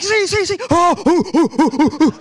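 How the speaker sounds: taunting sing-song ooh; high mocking jeers; mocking rivals. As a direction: tease like gloating fans. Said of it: "everybody was just like".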